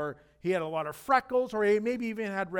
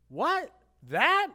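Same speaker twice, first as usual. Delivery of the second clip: high, loud scoffing disbelief; giant's disbelief; 9 semitones higher, 8 dB louder than usual. Acted. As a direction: sneer at the tiny challenger. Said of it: "He's like".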